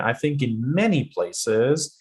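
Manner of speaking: many stressed and rising, said slowly; slow demo stressing many. Shown as a demonstration. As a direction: push the word many. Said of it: "many is important".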